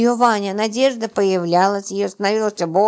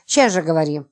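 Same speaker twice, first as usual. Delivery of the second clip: urgent demand, only mildly yelled; understated yell. Acted. Роман shaking Липочка for an answer, half-yelling. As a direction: demand an answer with contained frenzy. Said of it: "завопил".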